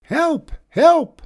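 high, loud shout for help; panicked shout. A narrator's reading. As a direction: shout it out in alarm.

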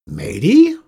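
loud, high calling yell; old witch calling for her helper; yelling a name. A narrator's reading. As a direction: yell out across the yard for her. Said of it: "yelled Critch".

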